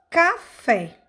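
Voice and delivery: "café" in two beats, the "fé" stressed; stress on final syllable. Shown as a demonstration. Teacher showing pupils an example, "café" with stressed FÉ. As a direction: separate "ca" from "fé" in "café", landing on "fé". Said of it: "destacaremos as sílabas tônicas".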